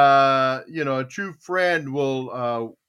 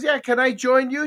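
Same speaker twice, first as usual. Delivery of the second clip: high, eager asking; eager dad; 8 semitones higher than usual. Retold or imitated. Dad asking to join daughter's tea party, eager. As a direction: ask sweetly with raised pitch.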